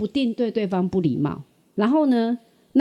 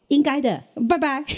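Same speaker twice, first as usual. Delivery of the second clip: cheerful schoolboy; 6 semitones higher than usual. Retold or imitated. Schoolboy answering her.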